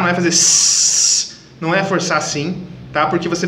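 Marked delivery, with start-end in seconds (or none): 0.0-1.4 hard, pushed hiss through the teeth; forced hiss. Shown as a demonstration. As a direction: force the air out hissing. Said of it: "A ideia não é forçar".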